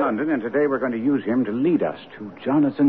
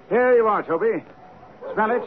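coaxing the dog; 10 semitones higher than usual. Acted.

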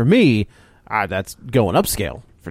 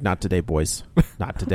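low mock Dan voice; 6 semitones lower, 7 dB quieter than usual. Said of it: "And he's just like".

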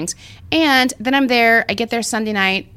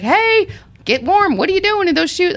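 put-on weird New York accent; 10 semitones higher than usual. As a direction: imitate friendly New York guys, pitched up. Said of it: "doing it with a weird accent".

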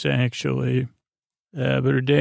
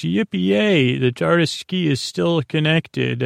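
lightly mimicked whoop, pitched up at the start; high "yippee" that settles down as it goes; play-acted celebration at modest volume; retold cheer; 4 semitones higher than usual. Retelling the doctor's joyful exclamation.

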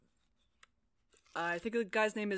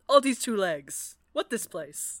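slow, loud dimwit voice; hammed-up brainless dog; dopey dog; 6 dB louder than usual. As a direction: sound blank and lost.

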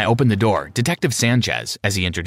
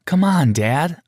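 pleading; 6 semitones higher, much slower than usual. A narrator's reading. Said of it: "I pleaded".

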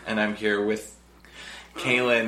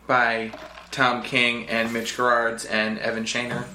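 even robot syllables, slow; slower than usual. Real, not acted. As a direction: read names like a robot. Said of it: "That's what you sounded like".

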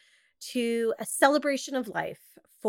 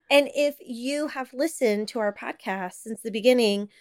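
usual speaking voice

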